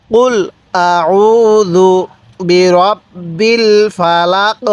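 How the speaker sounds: drawn-out Quranic chanting; stretched, measured recitation; slow recitation. Shown as a demonstration. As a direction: recite it slowly with tajweed. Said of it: "কিভাবে পড়ব?".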